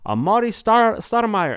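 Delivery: fast, high, loud Spanish radio announcer; radio host intro. Retold or imitated. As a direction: hype it up like a Latin radio DJ. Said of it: "I would say".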